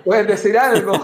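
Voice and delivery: real laugh breaking through; chuckling as he admits the joke. Real, not acted. Podcast guest jokes with the host, laughing. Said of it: "estoy bromeando con eso".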